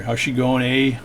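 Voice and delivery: mild mock Canadian "How's she going, eh"; a light Canadian accent. Shown as a demonstration. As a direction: toss it off like a Canadian buddy. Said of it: "That's Canadian for hi".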